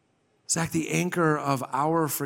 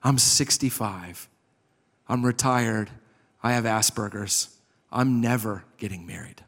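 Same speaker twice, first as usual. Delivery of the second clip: low, measured retold confession; an older friend speaking frankly, voice held low; earnest confiding; 3 semitones lower than usual. Older man confides to younger man.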